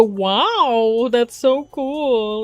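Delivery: slow, gushing fake amazement; mock wowed reaction. Streamer mocking her own reaction voice. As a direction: play up a canned wow for the camera. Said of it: "I just go".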